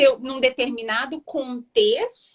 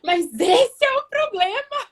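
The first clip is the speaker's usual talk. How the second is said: exasperated retort; 3 semitones higher than usual. Retold or imitated. Frustrated partner confronting the silent one, exasperated. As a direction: finally tell them what the problem is. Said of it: "a vontade de você falar assim".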